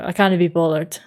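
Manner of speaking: CAN'T said lazily as "cannae"; lazy contraction. Shown as a demonstration. Explaining lazy speech to viewers, "can't" slurred into "cannae". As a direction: run "can't be" together as a quick "cannae be". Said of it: "it's a lazy way of speaking".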